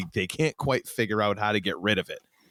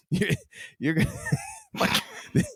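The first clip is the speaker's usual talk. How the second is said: laughing; 4 semitones higher, faster than usual. Real, not acted. Laughing while teasing cohost.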